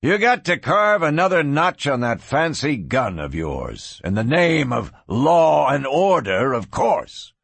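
scornful cattle king; accusing taunt. Acted. Cattle king sneers at the lawman's killing, scornful taunt. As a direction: taunt him with heavy emphasis.

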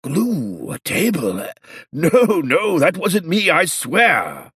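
put-on high, frightened old man pleading; cowering plea. A narrator's reading. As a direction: beg like he's cornered. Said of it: "he said fearfully".

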